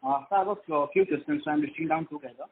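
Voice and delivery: distant, muffled speakerphone voice; talking too far from the mic; phone held away. Real, not acted. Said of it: "Are you on speaker phone by any chance?".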